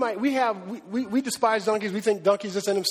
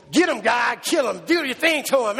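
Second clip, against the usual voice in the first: mock cheering shout. Congregation voiced cheering God's revenge.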